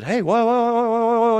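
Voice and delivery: put-on be a thrilled child in the car; excited kid. Kid shouts whoa riding in dad's car, mock excited. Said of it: "said dumb things as a kid".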